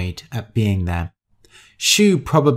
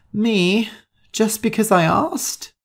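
indignant surprise; 10 semitones higher than usual. A narrator's reading. Shu protests her assignment.

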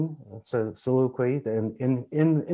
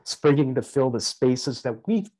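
put-on raised, impassioned reading of a grieving young woman's lament; dramatic soliloquy reading; 4 semitones higher than usual. Reading Samosa's soliloquy aloud to the gathering, impassioned and declamatory. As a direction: declaim it as Samosa mourning the world's madness. Soliloquy continues after stage direction.

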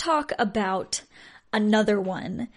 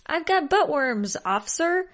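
lightly voiced cheerful kid, a bit higher; super happy little girl; 5 semitones higher than usual. Daughter cheerfully telling the officer about her worms, lightly voiced happy kid. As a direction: chirp it out like a delighted little girl, only lightly done. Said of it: "says in a super, super happy voice".

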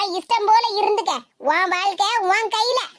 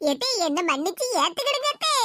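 tearful pleading; 2 semitones lower, 4 dB quieter than usual. Acted. Daughter-in-law begging mother-in-law to take her back, tearful pleading. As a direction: plead through mild mock sobs. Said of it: "கெஞ்சி கதறி அழுதுகிட்டு".

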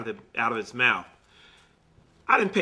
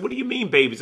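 shocked disbelief; 7 semitones higher, faster than usual. Retold or imitated. Asking again, shocked by the story.

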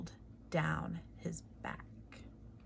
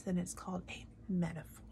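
whispered aside; 6 dB quieter, faster than usual. Real, not acted. Whispered aside explaining term.

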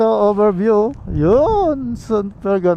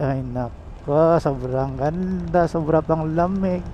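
soft awe; 5 dB quieter, slower than usual. Real, not acted. Admiring the view.

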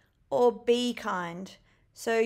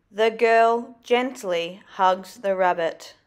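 loud, clear repeat; loud reading; 2 semitones lower, 6 dB louder than usual. Shown as a demonstration. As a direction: say it loudly again. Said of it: "example sentence repeated".

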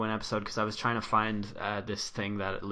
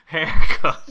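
laughing imitation, higher and louder; high, loud mock retort breaking into laughs; Mark; 6 semitones higher, 13 dB louder than usual. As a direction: quote it through laughter, punching the last word. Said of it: "And Mark is like".

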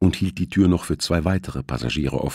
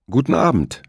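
sharp, higher and louder greeting; 9 semitones higher, 4 dB louder than usual. A narrator's reading. Thompson confronts the suspicious steward, sharp. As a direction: cut in sharply as a warning. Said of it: "sagte Thompson scharf".

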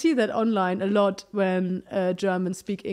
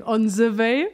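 put-on German-accented English. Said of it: "on the with an S".

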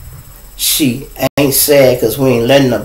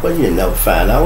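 smooth, lower and cool; 5 semitones lower than usual. Retold or imitated. Cool reply to son boasting he can take him, smooth. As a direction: play it cool and unbothered. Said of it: "you know I'm smooth".

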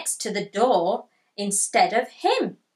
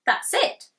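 excited shout; 10 semitones higher than usual. Acted. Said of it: "shouted Tiger".

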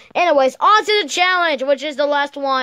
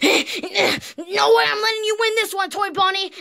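fast competitive shout; 5 semitones higher, faster than usual. Acted. Competitive taunt mid-race.

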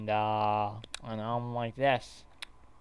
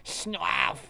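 loud, high burst; sudden outburst; 6 semitones higher, 6 dB louder than usual. Acted. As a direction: blurt it out explosively. Sudden outburst in acted scene.

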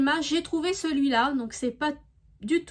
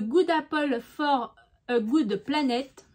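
English name read slowly with a French accent; careful, slow French-accented English; accent français en anglais; slower than usual. Real, not acted. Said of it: "excusez-moi de mon accent". (accent français en anglais, débit lent)

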